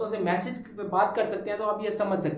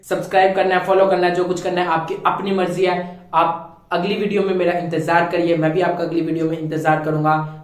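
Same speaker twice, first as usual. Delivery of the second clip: loud sign-off; 9 dB louder than usual. Real, not acted. Outro sign-off to viewers.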